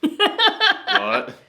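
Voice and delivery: high, shrill shocked what. Retold or imitated. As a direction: squeak it in disbelief. Wendy's shocked reply.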